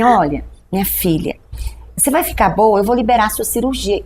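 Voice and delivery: lightly voiced doctor comforting his patient; merciful doctor. Doctor reassuring the worried patient, gently merciful. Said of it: "com aquela cara de misericórdia".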